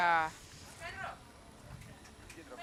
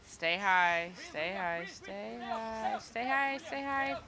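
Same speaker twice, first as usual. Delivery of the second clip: urgent coaching call; 3 semitones higher, slower than usual. Real, not acted. Urging diver during the ascent.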